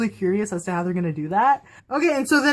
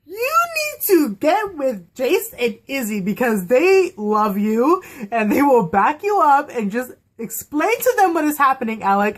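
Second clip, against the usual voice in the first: pleading with Alec; 4 semitones higher than usual. Retold or imitated. Fan urging Alec to tell his siblings. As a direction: coax Alec gently to talk to them. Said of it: "And I was just like".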